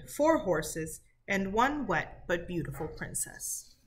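reading a folk tale to a class, steady and clear; lightly voiced storybook reading; story narration. A narrator's reading. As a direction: tell it like a storybook to sixth graders. Teacher reads folk tale aloud.

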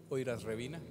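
saying aniversario reversed as Oiras Revina; backwards word. Shown as a demonstration. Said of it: "Dime aniversario al revés".

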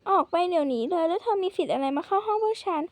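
loud, angry order to get out. Acted. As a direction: throw the intruder out, furious. Intruder in the room, quarrel.

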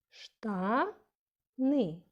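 "Штани" with a long rising first syllable, then a pause; stress on first syllable. Shown as a demonstration. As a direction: say "Штани" as SHTAA... ny, falling on ny. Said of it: "Перший склад".

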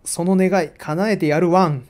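dog line laughed through. Acted. Reads talking dog statue.

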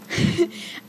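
nervous giggle. Real, not acted. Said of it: "so I'm really sorry".

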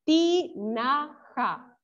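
"Tinaja" very slowly, split into ti, na, ja; syllable by syllable. Shown as a demonstration. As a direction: dictate "Tinaja" one syllable at a time. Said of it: "No encuentro la ja ni". ("Tinaja" muy lento, por sílabas)

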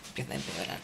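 muttered repeat. Shown as a demonstration. God muttering "empieza a empeorar" as a soft, low aside. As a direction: echo "empieza a empeorar" to yourself, barely audible and low.

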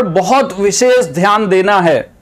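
weight on "बहुत विशेष ध्यान"; emphatic stress. Shown as a demonstration. Teacher showing students how speech marks importance, emphatic stress on "बहुत विशेष ध्यान". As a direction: punch "बहुत विशेष ध्यान" deliberately, word by word. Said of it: "जैसे अभी मैंने बोला".

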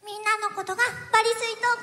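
put-on lightly cute anime girl; a hint of a moe anime line. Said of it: "だからじゃあアニメ声で、なんか萌え台詞とか言ってみて".

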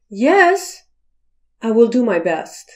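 a yes that only promises effort; a bright yes, then a careful pledge; dutiful yes. Shown as a demonstration. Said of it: "the word yes has about five meanings".

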